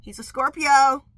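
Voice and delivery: loud, slow emphatic statement; emphatic declaration. Real, not acted. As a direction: declare it slowly and loudly.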